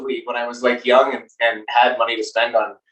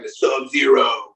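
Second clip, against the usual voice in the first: generic beer guy voice; slower than usual. Acted. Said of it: "I do love the impersonation that you slipped into".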